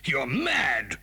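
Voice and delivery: hushed, appalled whisper; shocked whisper. Acted. Captive whispering to the villain in shock. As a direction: breathe it out in horror.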